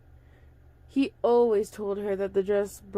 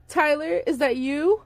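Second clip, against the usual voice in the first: calling out louder and higher; yelled; 6 semitones higher, 5 dB louder than usual. A narrator's reading. Father searching the rocks for his son, calling out. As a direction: call his lost son's name. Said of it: "he yelled".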